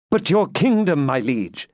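high, earnest appeal; anxious knight's high-pitched protest; urgent protest. A narrator's reading. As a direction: break in with a loyal objection. Knight protests to his king.

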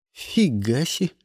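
ordinary delivery

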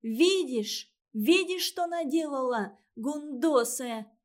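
резкий высокий визгливый крик; визжи на сестру в панике; визг. Acted. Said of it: "Завизжала Сонька". (Сонька визжит на Клаву из-за разбитого баллона)

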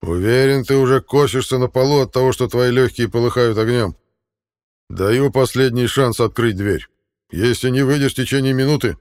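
loud, high threatening taunt; taunting shout. Acted. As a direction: bark threats through the door. Enemy threatens from behind door.

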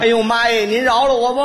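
hammed-up cry for mercy; mock pleading. Son begs waiting mother to spare him, mock-frightened. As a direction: beg off in comic panic.

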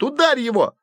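high shout. A narrator's reading. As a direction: scream at him to hit. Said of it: "закричал средний Флинт".

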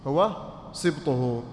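drawn out and emphatic; slow emphasis. Shown as a demonstration. Teacher stressing the term سبطه slowly for students.

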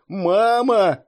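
loud, high panicked cry; frightened childlike scream; panicking. A narrator's reading. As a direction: cry for mother in rising panic. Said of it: "запаниковал Илья".

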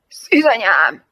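loud, throaty gasp of alarm; croaked exclamation. A narrator's reading. Lieutenant in Jane's speeding car, croaking in alarm. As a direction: rasp it out in shock. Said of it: "hörögte a hadnagy".

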